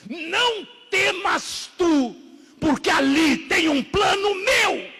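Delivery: high, slow, resounding shout; God's proclamation. Retold or imitated. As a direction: thunder the reassurance word by drawn-out word. God's words voiced in sermon.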